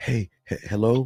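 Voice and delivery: hushed, furtive, hiding voice. Mocking how the caller sounded on the line: imitating a caller speaking quietly as if hiding. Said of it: "You're just like".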